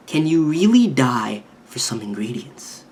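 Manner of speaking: slow whisper; whispered question. Acted. Hori to Tsukiyama, a slow teasing whisper. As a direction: lean in and breathe the question.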